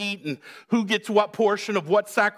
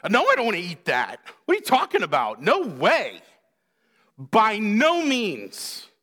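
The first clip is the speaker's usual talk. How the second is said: disgusted refusal; 2 semitones higher than usual. Acted. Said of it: "That's how Peter's reacting to this".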